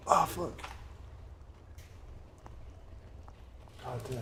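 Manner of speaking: strained groan mid-stretch. Real, not acted. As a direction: groan through a back stretch. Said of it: "I'm stretching my back".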